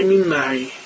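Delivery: مین معی with a long i, min ma'i; Egyptian min. Retold or imitated. Egyptian on the phone, imitated. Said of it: "یا میگه".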